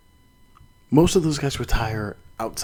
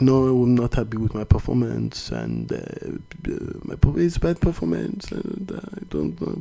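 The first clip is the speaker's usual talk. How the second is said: imitating a French fighter in a light French accent; halting, hesitant French-accented English; playful French accent impression; mock French accent. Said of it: "that's my French accent".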